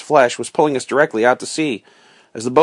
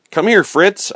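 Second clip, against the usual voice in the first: higher-pitched storybook call; calling to someone in another room; 7 semitones higher, 4 dB louder, slower than usual. A narrator's reading. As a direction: call him over, lightly acted. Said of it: "I called from the captain's cabin".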